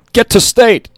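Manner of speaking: high, loud group shout; team yell. A narrator's reading. Boys answering their coach, loud high yell. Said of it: "The boys all yelled".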